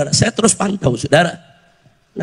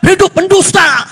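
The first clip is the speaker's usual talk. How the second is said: high, raised mock cheer; imitated rally cry; 6 semitones higher, 5 dB louder, slower than usual. Preacher mimicking those who cheer for liars, mock shout. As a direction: shout it like a misguided supporter. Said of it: "Eh, dia teriak".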